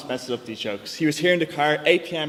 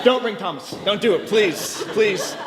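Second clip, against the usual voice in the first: begging; 6 semitones higher, 3 dB louder, slower than usual. Retold or imitated. Kids begging dad in car.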